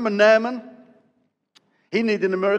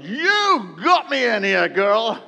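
mock accusing Naaman; 3 semitones higher, 5 dB louder, much slower than usual. Naaman glaring at the servant girl.

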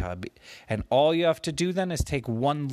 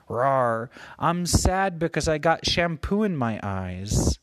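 put-on sad baby lion; 3 semitones higher than usual. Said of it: "the lion said back to him".

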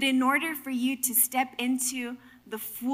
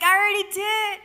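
emphatic reply; 8 semitones higher, 4 dB louder than usual. Acted. God's acted exasperated reply.

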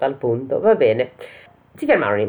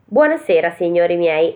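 light teasing shout, pitched up at the start; mocking call; 4 semitones higher than usual. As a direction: call out to mock them, lightly. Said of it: "gridò loro, prendendoli in giro". (grido canzonatorio, leggero)

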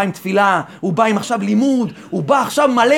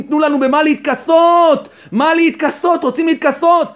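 high, urgent plea; acted outcry of the naked; imitated crying out; 4 semitones higher than usual. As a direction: beg in a raised, pressing voice. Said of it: "והם צועקים".

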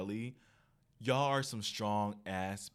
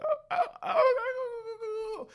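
high laughing relief; 7 dB louder than usual. Retold or imitated. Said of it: "I said".

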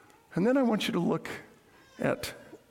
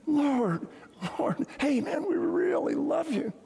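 higher, breezy mock-casual "Lord, Lord, hey man"; casual mock pleader; 6 semitones higher, slower than usual. Pastor mocking casual believers, higher and breezy. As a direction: toss it off like a buddy. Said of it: "here's what they're saying".

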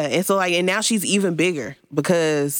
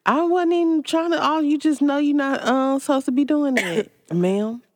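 mock scolding; 10 semitones higher than usual. Scolding friend for eating.

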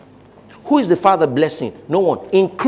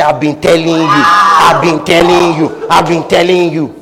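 scolding; 4 dB louder than usual. Acted. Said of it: "Then the Holy Spirit now say".

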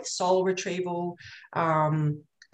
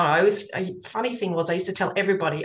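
ordinary talk, nothing marked

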